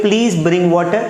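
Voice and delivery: very slow, rising please; teacher modelling a polite request. Shown as a demonstration. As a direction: say it slowly as a request. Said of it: "request करेंगे तो बोलेंगे".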